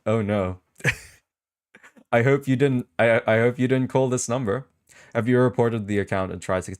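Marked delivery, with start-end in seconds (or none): 2.1-4.7 laughing through the words, pitch up; half-laughing worry; giggling as he warns chat. Real, not acted. Laughing worry about viewers calling.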